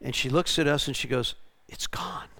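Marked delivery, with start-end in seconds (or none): 1.7-2.3 hushed, barely voiced; awed whisper. Freed woman looking at the team, hushed whisper. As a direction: whisper it in wonder.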